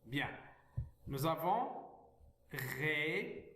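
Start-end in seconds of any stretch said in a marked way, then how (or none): 2.5-3.5 régulièrement stretched out with clear gaps; syllable by syllable. Shown as a demonstration. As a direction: say régulièrement one syllable at a time. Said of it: "lire les mots syllabiquement".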